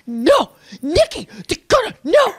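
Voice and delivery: imitating Hala. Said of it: "going like".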